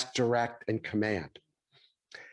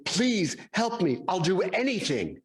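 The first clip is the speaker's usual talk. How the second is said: mock desperate plea, higher pitched; retold pleading; 4 semitones higher than usual. Man on the cliff begs God, mildly hammed-up pleading. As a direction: lightly act out a man begging for rescue. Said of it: "And he yells out".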